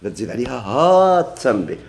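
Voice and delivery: لا said firm before تزيد; stress on la. Shown as a demonstration. Teacher contrasting with and without لا, firm لا. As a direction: press the word لا at the start. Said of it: "واش ها التنبيه أو لا".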